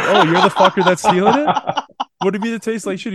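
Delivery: mock accusing, laughing through it; laughing accusation. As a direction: catch the thief while cracking up. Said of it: "I was like".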